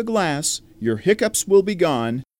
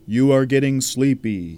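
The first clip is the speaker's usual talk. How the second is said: mesmerizing. Acted. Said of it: "Vern is now completely hypnotized".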